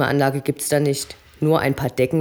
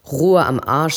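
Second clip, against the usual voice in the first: loud curt snap; angry retort; 5 dB louder, slower than usual. Acted. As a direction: bite back at the calm-down. Obob schnauzt zurück. (lauter, gereizter Konter)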